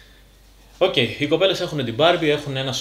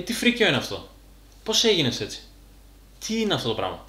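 lightly acted outsider's dismay, starting high and falling; appalled onlooker; 4 semitones higher than usual. Onlooker reacting to an oversized bodybuilder, mildly acted appalled disbelief. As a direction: react like a baffled onlooker, high at first then dropping. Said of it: "ένας που σε βλέπει απ' έξω".

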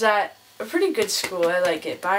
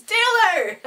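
much higher, drawn-out imitated call; 12 semitones higher, 4 dB louder than usual. Teacher correcting himself to the photographer, calling out. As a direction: call the name out high and loud.

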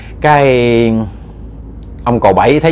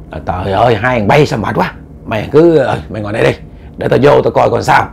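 lightly voiced uncle, lower; older uncle, weary exasperation; 3 semitones lower than usual. Uncle tells nephew to wait outside, mildly exasperated. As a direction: wave the younger men aside, low-pitched.

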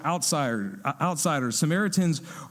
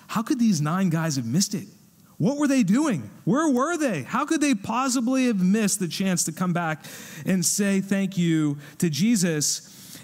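incredulous disbelief; 4 semitones higher than usual. Retold or imitated. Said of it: "probably your reaction is".

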